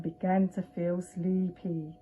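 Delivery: sleepy. A narrator's reading. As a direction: let it drift down sleepily. Dog getting sleepy.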